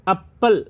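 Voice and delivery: "एप्पल" opened on an "a" vowel, "ap-pal"; opening vowel shown. Shown as a demonstration. Teacher showing apple starts with a vowel, pronunciation demo. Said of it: "अ आ रहा है ना".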